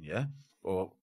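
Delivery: normal talking voice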